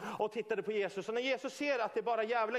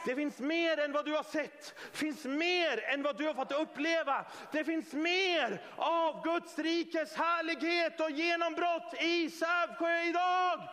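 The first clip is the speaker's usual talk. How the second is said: high, slow, building preacher's climax; full-force preaching; 6 semitones higher, 3 dB louder, slower than usual. Real, not acted. Preacher promises breakthrough to the congregation, climactic preaching. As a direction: build to a ringing, drawn-out climax.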